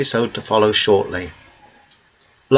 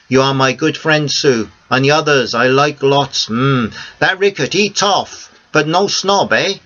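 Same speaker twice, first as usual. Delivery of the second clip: put-on higher, conspiratorial old Greek man; a bit higher, a friendly old Greek man sharing a secret; Theo's voice; 3 semitones higher than usual. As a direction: Greek cafe owner promising silence, pleased. Theo praises his friends.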